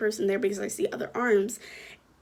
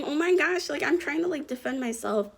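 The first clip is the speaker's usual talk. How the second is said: higher-pitched mock alarm, settling as it goes; retold fright; 4 semitones higher than usual. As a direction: replay a mild panic in a raised voice. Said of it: "scares me because I'm like".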